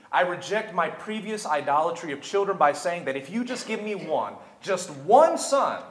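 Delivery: pleading aloud to God, mostly high and loud; preacher acting out a fervent, surging prayer; Hannah's impassioned prayer. Hannah pleading with the Lord for a son, impassioned prayer. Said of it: "she says".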